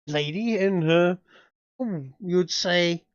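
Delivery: ordinary delivery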